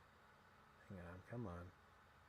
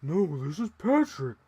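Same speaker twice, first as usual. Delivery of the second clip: louder, higher Patrick impression; Patrick meme; 4 semitones higher, 8 dB louder than usual. Correcting fans about Patrick, loud cartoon voice. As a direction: deliver it like the cartoon starfish.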